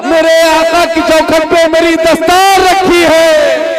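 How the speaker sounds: sing-song the couplet out to the gathering; impassioned mushaira recitation; poetic recitation. Acted. Recites the verses to the crowd.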